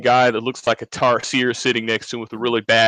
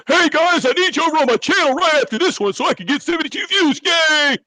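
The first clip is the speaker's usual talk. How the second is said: much higher, mocking squeaky fan-begging voice; mocking Kevin. Friend mocks Kevin begging chat for views, high squeaky mockery. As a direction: squeal it like a needy little streamer. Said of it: "you're not gonna be able to go".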